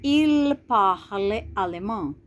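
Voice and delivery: Je parle portugais read slowly and clearly for the class; slow, careful French example sentence; slow model sentence. Shown as a demonstration. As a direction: read it out slowly like a language teacher.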